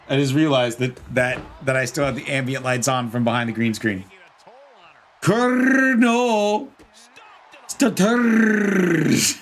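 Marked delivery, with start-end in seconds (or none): 5.2-9.4 drawn-out trill in "Colonel" and "Stutters"; rolled R's. Shown as a demonstration. Streamer shows off with the viewer's name, long rolled R's. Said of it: "I can roll the R's in that name".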